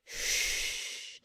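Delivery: soft shushing; softly shushing a companion; hush. Acted. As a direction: hush them quickly. Hushing the other.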